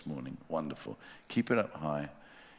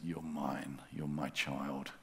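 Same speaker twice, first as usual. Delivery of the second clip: hushed, tender promise to a weary soul; gentle voice of God. Pretend. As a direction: speak it like a shepherd to a lost sheep. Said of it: "God says".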